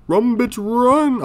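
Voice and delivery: high, loud, drawn-out yell; urgent yell. Real, not acted. Player urging escape from the room, urgent yell. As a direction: yell it high like you're fleeing.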